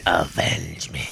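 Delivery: slow, low hammy dying plea; overacted death scene. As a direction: moan a melodramatic last plea. Hammy death line repeated.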